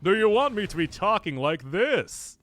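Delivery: mock attractive voice. Shown as a demonstration. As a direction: ham up a supposedly attractive voice, loudly. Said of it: "Doctors make your mo-, voice more attractive".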